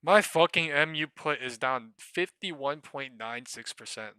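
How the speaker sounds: loud and slow, spelling out the damage; outraged. Real, not acted. Trader announcing his losing put, loud and slow. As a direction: hammer out the loss, loud. Reports put down fifty percent.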